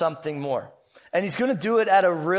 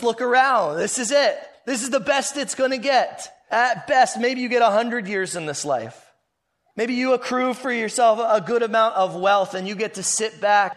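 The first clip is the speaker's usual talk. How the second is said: urgent challenge; 5 semitones higher than usual. Retold or imitated. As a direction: wake them up: look around, this is it. Jesus' challenge voiced in sermon.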